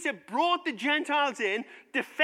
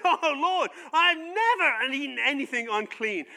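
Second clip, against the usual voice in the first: mock shocked protest; 3 semitones higher, 5 dB louder than usual. Apostle objects to God's command, mock shocked protest. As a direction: play a scandalized objection. Acting Peter's protest to God.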